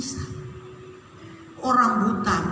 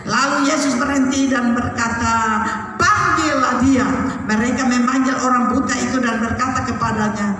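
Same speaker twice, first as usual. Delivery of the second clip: raised, steady proclaiming voice; preacher declaiming a Bible story; forceful scripture reading; 4 dB louder than usual. A narrator's reading. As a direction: read the passage out strongly to a congregation.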